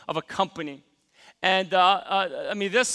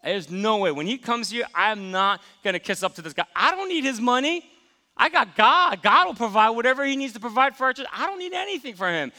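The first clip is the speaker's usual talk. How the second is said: building from muttered to loud, higher and louder at I got God; mock defiant inner rant; 3 semitones higher, 4 dB louder than usual. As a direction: talk yourself into a huffy, proud stand. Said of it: "I said to myself".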